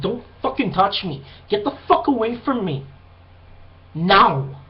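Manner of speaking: firm warning ending on a punched final word; retold warning. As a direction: replay telling someone to back off, emphatically. Retold warning to woman grabbing him.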